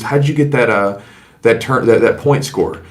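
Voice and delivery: politely retold question, a bit halting; respectful. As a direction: put it respectfully to the ref. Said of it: "Chad was respectful".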